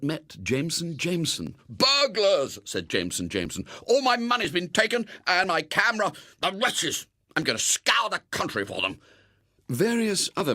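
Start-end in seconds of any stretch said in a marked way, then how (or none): 1.7-2.6 outraged cry. Acted. Jameson outraged at theft. 3.9-9.0 outraged lament. Acted. Jameson lamenting stolen things.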